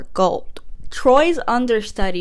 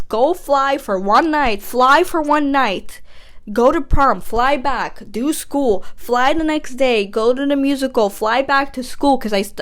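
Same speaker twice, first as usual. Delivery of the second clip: exasperated rant; 3 semitones higher, 3 dB louder than usual. Retold or imitated. Gabriella tells Troy she can't fly back, exasperated. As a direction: act out a fed-up refusal.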